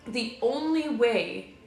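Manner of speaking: slow, deliberate pep talk; a touch of inspirational speaker; motivational speech. Pretend. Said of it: "into, like, a motivational spiel here".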